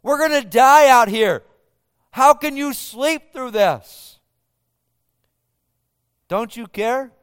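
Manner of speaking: frightened disciples begging their sleeping teacher; exasperated, terrified. Acted. Disciples shout at sleeping Jesus in exasperated terror. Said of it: "frustrated and terrified and an exasperated tone".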